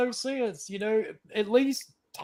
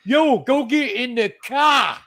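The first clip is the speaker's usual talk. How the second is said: put-on slow, louder New Jersey tough-guy accent; mock New Jersey accent; 4 semitones higher, 6 dB louder, slower than usual. Mocking actors in a New Jersey accent. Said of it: "somebody from New Jersey".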